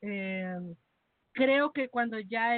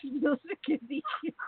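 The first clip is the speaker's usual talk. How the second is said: crying with laughter, high; helpless laughter; 8 semitones higher, slower than usual. Real, not acted. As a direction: laugh till tears.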